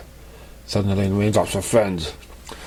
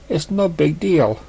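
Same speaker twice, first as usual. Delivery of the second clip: scolding himself; 6 semitones higher, slower than usual. Acted. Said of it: "scolding himself".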